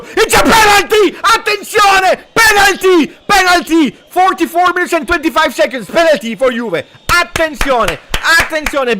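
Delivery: high, loud penalty call; ecstatic shouting. Real, not acted. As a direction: yell it out as the ref points to the spot. Elfmeter gepfiffen, Livekommentar.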